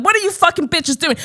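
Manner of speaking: mock confrontational European-American accent; American-European mixed accent. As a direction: mimic an obnoxious man with a transatlantic-European accent. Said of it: "an accent that's kind of".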